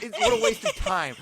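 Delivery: amused imitation of a huffy outburst; retold fury. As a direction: imitate an indignant sister, pitch jumping up. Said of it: "furious after".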